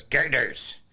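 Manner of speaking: punchy mock Scottish accent. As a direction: mimic a Scottish shop lady. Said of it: "this is how they talk".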